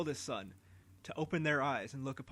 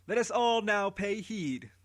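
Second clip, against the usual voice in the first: higher, louder, slow call for attention; herald's call; 6 semitones higher, 6 dB louder, slower than usual. Acted. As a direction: call the crowd to silence. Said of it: "Anuki said".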